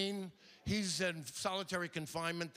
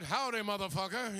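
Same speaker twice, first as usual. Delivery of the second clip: lightly voiced Western cowhand; a hint of a swearing cowpoke; cowboy; 2 semitones higher than usual. Comic parodies Deadwood's profane Western dialogue, mock cowboy voice. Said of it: "no evidence that cowboys talk like this".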